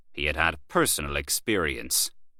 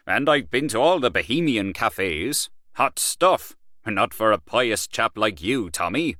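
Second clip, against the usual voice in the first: lightly voiced swaggering man of the world, a bit higher; boastful Gallaher; 3 semitones higher than usual. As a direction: brag about Paris to an old friend.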